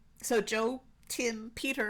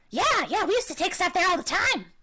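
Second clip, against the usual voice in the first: high-pitched, loud kobold creature voice. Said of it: "I love the kobold voice".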